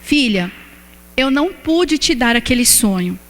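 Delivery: voice of God. Retold or imitated. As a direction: lightly voice God speaking tenderly to his daughter. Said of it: "E o Senhor falou assim".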